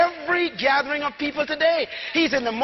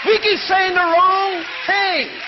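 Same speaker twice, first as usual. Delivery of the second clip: full-force preaching. Acted. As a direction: drive the congregation to shout it back. Preacher in full call-and-response.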